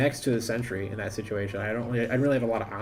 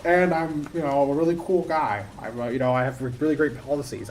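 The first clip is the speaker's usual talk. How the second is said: lightly voiced cheerful candidate; mock lab-grown candidate; 3 semitones higher than usual. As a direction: play the proud lab-grown guy lightly. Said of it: "it's like".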